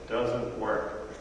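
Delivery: quietly disillusioned; quiet bitter mutter. Retold or imitated. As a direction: let it sag in defeat. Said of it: "I might have said".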